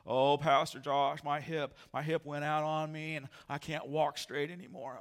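lightly voiced Eeyore complaint. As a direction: moan like a gloomy donkey. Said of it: "how Eeyore would talk".

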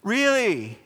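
high, drawn-out mock disbelief; incredulous, pitched well up, stretching the words; exasperated Jesus. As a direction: act out a teacher at the end of his patience. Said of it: "He's, like, got the nervous twitch".

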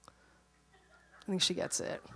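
slow whispered aside; slow gentle whisper, calming the mother; whispered repeat. Retold or imitated. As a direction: breathe it out slowly, unvoiced. Husband's reply repeated whispered.

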